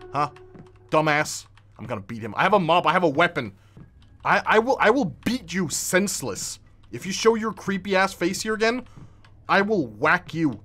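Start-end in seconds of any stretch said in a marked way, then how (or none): 2.4-10.6 loud threat. Acted. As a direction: threaten to beat the intruder. Threatening ghost with mop.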